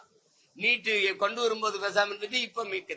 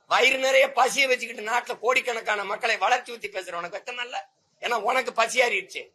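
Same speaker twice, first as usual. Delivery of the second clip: raised, heated accusation, louder and higher; angry rant; 4 semitones higher, 4 dB louder than usual. Real, not acted. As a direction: hurl it at the rulers in outrage. Angry rant at rulers over water. (கோபமான உரத்த குற்றச்சாட்டு)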